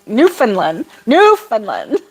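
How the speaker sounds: "Newfoundland" as NEW-fin-lin, lifting on the repeat; practising Newfinlin. Shown as a demonstration. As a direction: playfully drill "Newfoundland" as Newfinlin. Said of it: "still going over".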